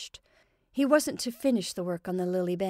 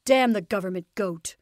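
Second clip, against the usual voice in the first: angry; 7 dB louder than usual. Acted. Father cursing in anger.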